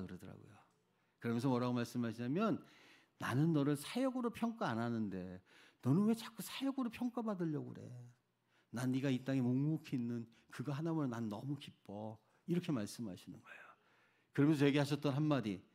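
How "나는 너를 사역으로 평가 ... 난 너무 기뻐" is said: softened, tender fatherly words; quietly reassure, as if quoting a loving father; gentle reassurance, retold. God reassures the worn-out missionary, gently.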